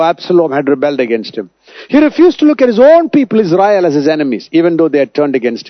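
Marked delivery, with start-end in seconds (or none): 1.9-3.9 emphatic preaching. Real, not acted.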